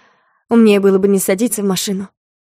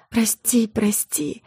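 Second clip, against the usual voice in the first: слабый шёпот; прошепчи на последнем дыхании; тихий шёпот; 5 dB quieter, much slower than usual. Acted. Последние слова умирающего. (угасающий шёпот)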